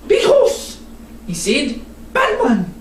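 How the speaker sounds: put-on high toddler's voice; small child. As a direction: toddler blurting out the secret. Little William speaks.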